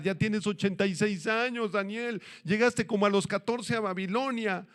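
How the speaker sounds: put-on animated, incredulous questioning of an old friend; lively mock scolding; mock remonstrating. Mock confronting Daniel about his life.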